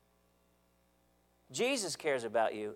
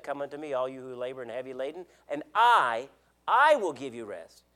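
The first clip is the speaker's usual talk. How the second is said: sincere promise of Jesus; 3 semitones lower than usual. Retold or imitated. Preacher quoting Jesus to the congregation, sincere and firm. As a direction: offer it as a sure promise. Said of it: "He doesn't say".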